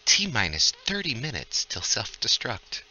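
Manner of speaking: lightly voiced computer announcement; computer's female voice. Game master as the ship's computer warning the party, lightly voiced computer. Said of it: "hear the computer and her female voice say".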